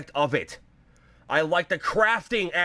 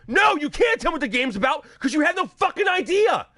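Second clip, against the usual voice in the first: higher, louder exasperated yell; angry shout; 8 semitones higher, 3 dB louder than usual. Real, not acted. Ranting at hyped fans about the game, with a real angry shout. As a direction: shout them down in real frustration.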